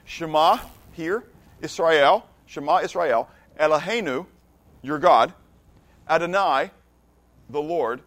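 phrase by phrase, with pauses between; slow teaching recitation, each Hebrew phrase set apart. Shown as a demonstration. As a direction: spell it out slowly for non-Hebrew speakers. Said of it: "but I'll speak it slower".

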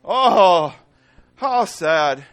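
loud mock sorrow; mock bystanders. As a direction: ham up the crowd's pity. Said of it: "they go".

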